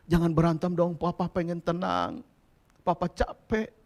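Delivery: weary pleading. Retold or imitated. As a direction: plead with the kids, worn out. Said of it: "Saya katakan".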